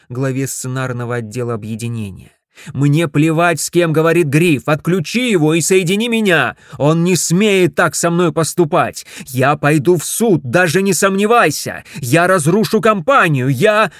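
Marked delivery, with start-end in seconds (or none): 2.7-13.9 loud, higher furious tirade; angry shouting. Acted. Ted yells threats at Dorothea, loud and furious. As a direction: rant at her at full volume.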